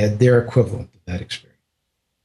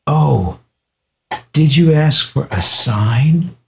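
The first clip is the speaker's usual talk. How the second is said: slow, higher knowing question; knowing tease; 4 semitones higher, much slower than usual. Retold or imitated. Guru gently exposing the visitor's secret wish, slow and teasing. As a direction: draw it out like you know the secret. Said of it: "he started teasing me".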